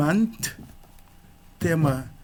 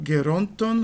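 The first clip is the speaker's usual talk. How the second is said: "geronton" stressed on the middle syllable RON; stress moved forward. Shown as a demonstration. Teacher showing the genitive plural accent shift, "geronton" stressed on RON. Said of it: "O acento avança".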